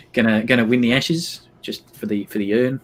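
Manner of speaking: passable Australian accent, rather New Zealand; Australian accent slipping towards Kiwi; Aussie accent. Shown as a demonstration. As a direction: keep up a playful Aussie impression. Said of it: "Passable, but quite New Zealand".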